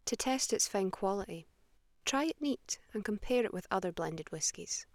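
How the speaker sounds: smooth, measured commercial voice-over; whisky ad read. Acted. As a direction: sell the Scotch like a classic TV ad.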